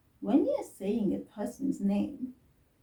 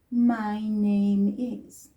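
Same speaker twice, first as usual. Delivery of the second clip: drawn-out, slow demo; slow example phrase; 4 dB louder, much slower than usual. Shown as a demonstration. Teacher slowly showing the phrase to avoid. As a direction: say it slowly as the example not used. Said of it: "I didn't say".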